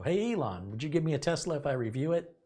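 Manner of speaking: playfully hailing someone famous; calling out. Pretend. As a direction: call out a cheeky request. Imagined pitch to Elon, called out.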